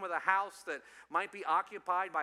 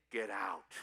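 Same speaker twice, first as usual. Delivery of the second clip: retold command; 9 semitones lower than usual. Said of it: "telling this demon".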